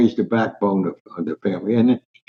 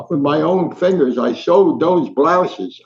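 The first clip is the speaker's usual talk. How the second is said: defiant; 4 semitones higher, slower than usual. Retold or imitated. Mother defiant to store men.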